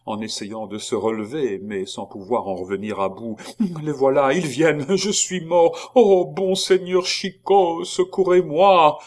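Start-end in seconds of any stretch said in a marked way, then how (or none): 3.8-9.0 very high, loud, desperate cry for help; panicked plea. A narrator's reading. Gorenflot screams to Chicot for rescue in panic.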